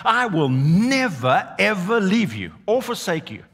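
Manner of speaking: loud, slow stress on "never"; emphatic preaching. Acted. Preacher stressing God's emphatic promise. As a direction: stretch "I will never" out slowly and loudly.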